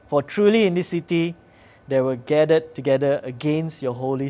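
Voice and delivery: loud, emphatic public Bible reading; declaimed prayer from scripture. Acted. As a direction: proclaim the prayer to the congregation, punching key phrases. Reads scripture prayer aloud.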